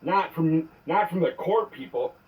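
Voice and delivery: angry voicemail rant; furious message to an officer; leaving a voicemail. Real, not acted.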